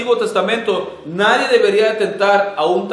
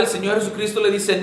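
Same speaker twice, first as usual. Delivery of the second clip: ordinary talk, nothing marked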